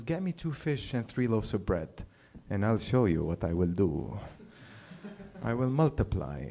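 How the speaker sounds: calm, seasoned magician; mildly staged calm, like a magician announcing a trick. Acted. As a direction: say it calmly, with measured showmanship. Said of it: "very calmly".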